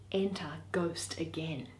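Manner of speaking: soft aside to the listener; whispered direction. Acted. Reader whispers the stage direction as the ghost enters.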